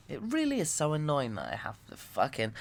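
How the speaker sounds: ordinary talk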